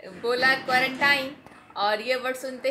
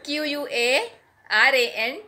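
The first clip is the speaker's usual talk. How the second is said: letters spelled out slowly and deliberately; spelling it out letter by letter; 4 dB louder, slower than usual. Shown as a demonstration. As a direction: dictate each letter slowly. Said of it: "मैंने spelling भी लिख ली है".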